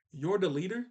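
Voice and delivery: mock indignation. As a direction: act out a mild, disbelieving objection. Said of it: "She gets really mad at Sokka".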